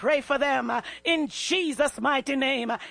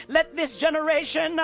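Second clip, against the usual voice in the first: passionate preaching. Real, not acted. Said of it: "I might sound like I'm full of passion".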